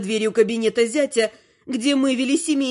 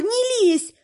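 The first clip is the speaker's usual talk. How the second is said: put-on higher young woman's plea; daughter's higher pleading voice; 8 semitones higher than usual. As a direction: tug him back, pleading.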